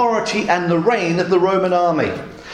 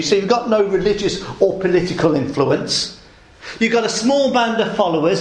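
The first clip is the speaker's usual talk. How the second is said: mocking. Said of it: "almost mockingly".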